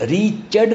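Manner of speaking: ریچڈ in two syllables, "ree-ched"; REACHED with E sounded. Shown as a demonstration. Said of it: "نہیں آپ پڑھتے".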